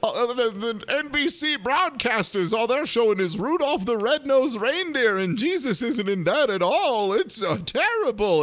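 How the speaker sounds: high-pitched ranting nun caricature; hammed-up complaining churchwoman; mock tirade. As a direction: rant in a silly, high put-on voice. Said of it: "She goes on a weird tirade".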